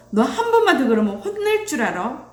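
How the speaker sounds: mock parental warning; empty threat. Parent scaring a child into behaving, threatening. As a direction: play a parent threatening punishment. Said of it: "이렇게 엄포를 놓으면".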